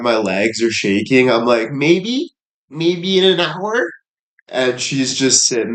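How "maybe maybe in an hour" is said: high, tentative voice with rising ends; mock timid hedging. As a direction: answer meekly, poking fun at yourself. Acts himself hesitantly putting her off.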